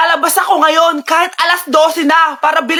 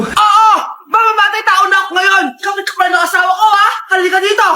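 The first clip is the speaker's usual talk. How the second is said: mock furious threat. Mother threatens neighbor.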